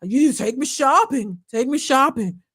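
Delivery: mock breathless celebrity voice; lightly put-on swollen-throat voice; gasping impersonation. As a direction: imitate her, gasping between phrases. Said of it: "she's kinda gasping for breath".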